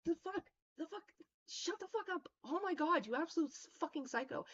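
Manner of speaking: high, held-back mock outburst; mock yell. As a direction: imitate yelling over your shoulder, volume held back. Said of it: "I'm just yelling over my shoulder".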